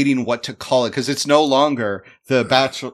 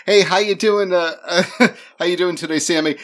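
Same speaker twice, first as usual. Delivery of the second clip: friendly greeting; 4 semitones higher than usual. Acted. Greeting the Candyman character.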